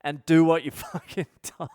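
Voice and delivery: acted boss order breaking into a laugh; mock-stern boss losing it to laughter; bossy telling-off. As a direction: order them about, cracking up near the end. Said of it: "Everyone loves a boss like that".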